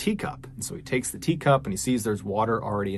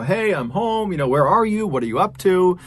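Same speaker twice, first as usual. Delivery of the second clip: high, raised-voice call through the house; mild narrated yell, pitched up; 7 semitones higher, 4 dB louder than usual. A narrator's reading. Father yells out to his daughter on coming home, calling out. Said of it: "he yells out to his daughter".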